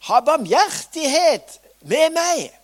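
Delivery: loud, high desperate cry for mercy; shouting out. Acted. Blind beggar crying out to Jesus, loud and high. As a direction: call out to Jesus across the crowd. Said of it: "Og han ropte".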